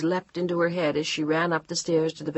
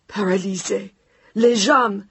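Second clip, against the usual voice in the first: lightly voiced old French woman; old woman grieving; 4 semitones higher, 7 dB louder than usual. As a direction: break the news in grief. Mother-in-law's grief-stricken news.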